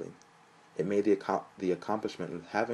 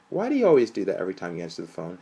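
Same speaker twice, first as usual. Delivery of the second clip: chuckling; 8 dB louder, faster than usual. A narrator's reading.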